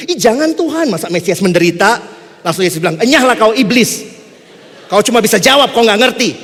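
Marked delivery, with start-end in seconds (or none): 0.1-2.0 shocked protest. Retold or imitated. Peter protesting to Jesus. 3.0-6.3 loud, stern scolding; Jesus rebuking Peter, loud and stern; stern rebuke. Retold or imitated.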